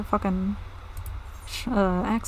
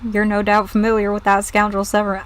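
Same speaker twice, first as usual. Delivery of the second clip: put-on pirate accent slipping into southern; failed pirate accent. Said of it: "I can't do a pirate accent".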